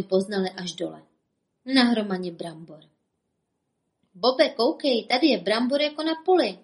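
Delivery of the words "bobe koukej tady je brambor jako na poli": higher, fast, wide-eyed marvel; amazed wonder. Acted. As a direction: gasp at all the potatoes. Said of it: "divil se Bobek".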